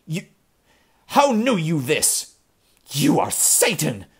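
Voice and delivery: put-on high, loud, babbling old man; gibbering terror. Ezra accusing Kane of being Satan, terrified. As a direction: shriek it out in panic. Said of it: "gibbered old Ezra".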